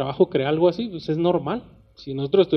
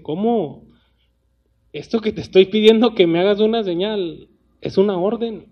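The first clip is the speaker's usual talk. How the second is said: mildly indignant, pitch climbing into the order; annoyed God; 4 semitones higher than usual. Acted. God rebuking King Acaz for refusing a sign, annoyed. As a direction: put a touch of offended authority into it. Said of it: "se enoja y dice".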